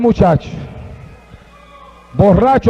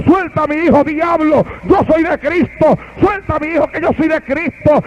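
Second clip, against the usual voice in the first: put-on old man shouting; 4 semitones higher than usual. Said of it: "aquel anciano en el cuarto".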